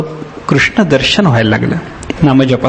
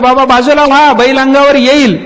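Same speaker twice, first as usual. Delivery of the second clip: much higher, loud yell to step aside; shouted warning; 10 semitones higher, 3 dB louder than usual. Retold or imitated. Crowd behind yells at deaf old man to move, loud high warning. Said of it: "ओरडून ओरडून सांगितलं".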